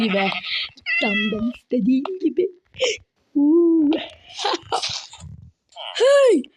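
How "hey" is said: high slow accusing villager; angry villager voice. Acted. Villager confronting the player, high accusing voice.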